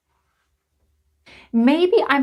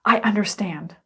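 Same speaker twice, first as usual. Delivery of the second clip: whisper; 2 semitones lower than usual. Acted. Aside to imagined student.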